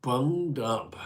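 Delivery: high, mock bunged-up voice; silly high voice. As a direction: squeak it out playfully. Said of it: "I sound like I'm bunged up".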